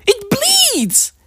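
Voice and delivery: high breathy whisper of amazement; awed whisper. Retold or imitated. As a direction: whisper it like a stunned child.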